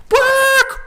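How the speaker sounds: sudden high yelp of a curse; excited curse. Retold or imitated. Realizing Disney is two blocks away, high yelp. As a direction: blurt it out in a high burst. Rushing to catch fireworks.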